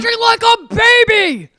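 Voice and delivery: high, very loud mock scolding; imitated scream. Wife imitating husband screaming at their son, yelling. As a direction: yell it imitating an exasperated dad. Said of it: "after listening to you go".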